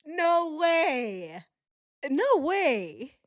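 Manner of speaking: laughing in disbelief. Real, not acted. Stunned by the lie, a tearful laughing question. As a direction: ask it while still crying with laughter. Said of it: "I'm in tears".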